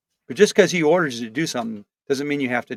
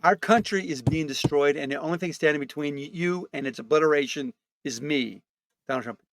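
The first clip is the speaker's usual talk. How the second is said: Trump rally voice. Acted.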